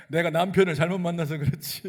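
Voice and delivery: hammed-up Chungcheong woman blaming her husband; Chungcheong grumble. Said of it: "충청도 화법".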